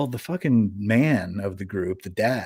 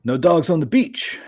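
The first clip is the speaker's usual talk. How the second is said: higher-pitched mock holler; retold holler; 6 semitones higher, 4 dB louder than usual. Stranger hollering at a dog walker on the beach, mock holler. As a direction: imitate a stranger hollering a warning. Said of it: "he just starts hollering".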